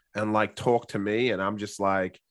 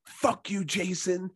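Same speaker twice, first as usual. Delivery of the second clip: mock angry; 6 semitones higher, 4 dB quieter, slower than usual.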